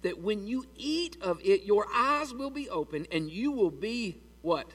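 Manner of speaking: slow, hushed serpent tempting her; tempting devil. Retold or imitated. Serpent tempts Eve in the garden, slow and hushed. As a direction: draw her in slowly like the serpent. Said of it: "the devil says".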